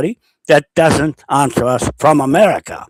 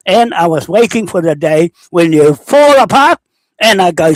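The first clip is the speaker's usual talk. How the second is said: real heated rant at Maori leaders, raised pitch; 5 semitones higher than usual. Real, not acted. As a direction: tear into them, voice raised.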